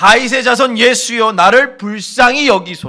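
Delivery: loud, high, pleading cry.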